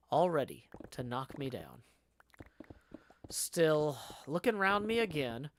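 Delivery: measured audiobook-style reading; story narration. A narrator's reading. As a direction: narrate the tale with lively phrasing. Reads the novel aloud.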